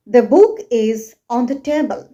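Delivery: THE BOOK IS ON THE TABLE stated as a fact, falling at the end; toneless statement. Shown as a demonstration. Teacher showing learners a flat sentence, toneless statement of "The book is on the table". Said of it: "there is no tone in my voice".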